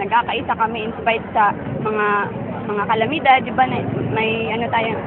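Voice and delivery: hushed, tearful voice after crying. Real, not acted. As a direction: speak softly, still teary. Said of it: "Sorry po, naiyak ako".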